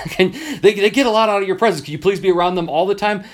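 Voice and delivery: high, fast, eager pleading; gushing parent. Retold or imitated. Parents begging the teacher to mentor their child, high and eager.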